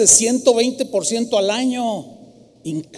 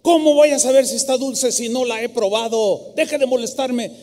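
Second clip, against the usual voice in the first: exasperated man; 4 semitones higher than usual. Retold or imitated. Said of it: "el hombre se desesperó".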